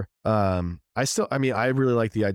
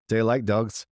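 quick Irish brogue catchphrase; Irish accent; 2 semitones higher than usual. Shown as a demonstration. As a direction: practise a light Irish accent. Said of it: "different phrases to help get into the character".

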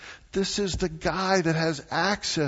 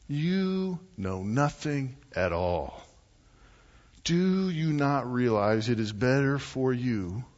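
tone of voice; slower than usual. Acted. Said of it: "can you hear the tone of his voice".

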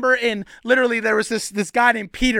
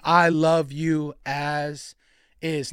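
lower, slow and tender; warm, loving; 6 semitones lower, 4 dB quieter, much slower than usual. Acted. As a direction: let each word settle, gently loving. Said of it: "warm, loving embrace saying".

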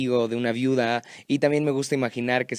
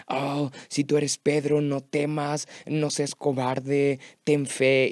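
slow, preachy sermon voice; mock preacher; slower than usual. Pastor mocking other preachers, in a slow preachy voice. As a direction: mimic a scolding preacher, slowly. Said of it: "predicaciones así que dicen".

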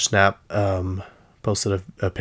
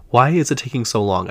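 real exasperated complaint; 3 semitones higher, 4 dB louder than usual. Real, not acted. Fan complaining about the long wait, exasperated. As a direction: demand an answer, mildly worked up. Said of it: "so now I'm mad".

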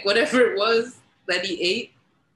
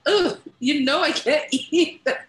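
higher mock groan through laughter; imitated queasy refusal; 7 semitones higher, slower than usual. White guy refusing Jamaican food, mock-queasy and laughing. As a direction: laugh while mimicking a man turning down food.

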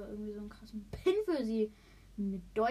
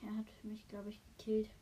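whispering; 5 dB quieter than usual. Real, not acted. Whispering after being killed.

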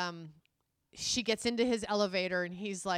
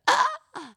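high, loud mock yelp of pain; mock pained cry; 13 dB louder than usual. Retelling the whipping scene, loud mock pained yelp. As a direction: yelp as if struck. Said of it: "he smacks her and she's like".

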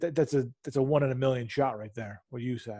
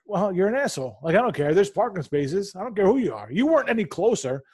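imitating angry rant; 5 semitones higher than usual. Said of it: "I'm like".

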